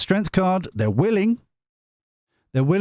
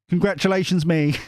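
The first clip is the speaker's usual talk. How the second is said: usual speaking voice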